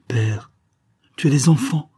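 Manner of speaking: urgent cry to his father. A narrator's reading. Son pleads with his grieving father, crying out. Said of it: "m'écriai-je".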